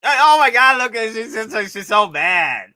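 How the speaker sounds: high, loud, slowed marveling; excited squeal. Real, not acted. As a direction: squeal over how mad she looks. Marveling at angry figure.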